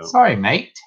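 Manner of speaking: a quick, hammed-up English accent on Sorry, mate; mock English accent, lightly put on; bad English accent. Apologizing to a viewer in a bad English accent. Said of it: "That was the worst English accent ever".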